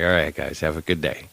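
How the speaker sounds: casual, slightly low-pitched sign-off; acted cool. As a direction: toss it off coolly, as if unbothered. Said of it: "I was all cool".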